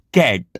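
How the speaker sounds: કેટ with a short open a, as in cat. Shown as a demonstration. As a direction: say કેટ with a brief a and no glide. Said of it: "નાનો ઉચ્ચાર થશે".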